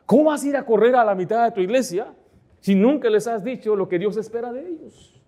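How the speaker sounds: fast, high-pitched incredulous challenge; retold scolding. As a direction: take a rash colleague to task. Retold scolding of young pastor.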